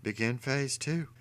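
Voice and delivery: villain quietly signalling his gang; whisper. A narrator's reading. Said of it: "he whispered to his gang".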